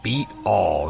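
mildly hammed-up jeering stepfather, stretching some words; mock taunting. Evil stepfather makes fun of the blind boy's eyes, mildly mocking. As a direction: tease him like a lightly voiced mean stepfather. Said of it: "really making fun of the boy".

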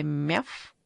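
a cat's brief meow; short meow. Acted. A cat in the dark gives a short meow, lightly voiced. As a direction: mew like a cat. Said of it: "раздалось краткое".

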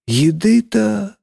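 slow, high, drawn-out afterthought; thoughtful. A narrator's reading. Teacher eyeing the laden table, thoughtful. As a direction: stretch it out while musing. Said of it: "добавила задумчиво".

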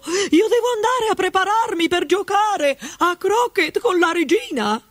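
high, sharp retort; snapping duchess. A narrator's reading. Duchess snaps at Alice, high and scornful. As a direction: put the girl down rudely.

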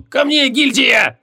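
high, drawn-out summons; mock-heroic high call; rallying cry. A narrator's reading. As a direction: call the troops to your side, slowly. Winded mage rallies his guild.

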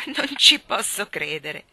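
loud, slow disbelief; astonished exclaim. Acted. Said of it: "esclamò Marta".

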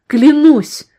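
high loud cry; desperate swear. Acted. Woman swearing to the gunman she knows nothing. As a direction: plead it.

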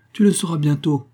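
ton menaçant. Acted. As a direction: menace plus haute et plus forte. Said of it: "d'un ton menaçant". (un frère menace Simone, ton menaçant)

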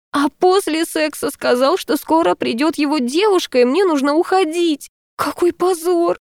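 высокий жалобный писк, медленно; пищать от стыда и обиды. A narrator's reading. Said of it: "перешла на жалобный писк". (жалобно пищит, рассказывая подругам о позоре)

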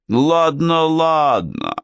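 high, brisk king cutting him off; interrupting. A narrator's reading. King interrupting the suitor, high brisk cut-off. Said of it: "перебил он меня".

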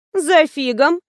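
a lively surprised lift up high. A narrator's reading. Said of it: "удивилась Вера". (удивлённо, с подъёмом голоса)

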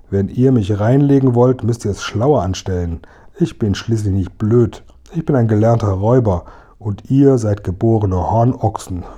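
a hint of a gloating robber; lightly voiced mocking robber. Robber Hotzenplotz mocking the two friends, gloating. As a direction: sneer at them like a smug robber.

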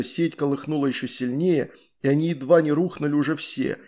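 ordinary delivery

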